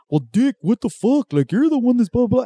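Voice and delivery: high indignant cholo voice; mock a petty cholo argument; cholo arguing. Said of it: "where I hear like".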